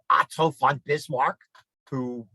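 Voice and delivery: put-on Otto von Bismarck said with a light German accent, "von" as "fon"; a touch of German on Otto von Bismarck. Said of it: "pardon my German accent".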